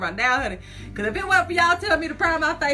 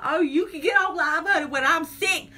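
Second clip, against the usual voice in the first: mock complaint, slightly raised pitch; imagined complaint; 3 semitones higher than usual. Imagining her complaint on waking up, mock indignant. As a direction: lightly act out her grievance. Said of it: "she gonna be like".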